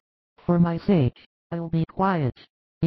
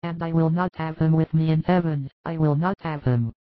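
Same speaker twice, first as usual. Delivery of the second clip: a touch of tearful grief, higher voice; sobbing; 5 semitones higher than usual. A narrator's reading. Mother grieving for her lost son, tearful plea. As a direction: plead through mild tears. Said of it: "sobbing she expresses her greatest pain".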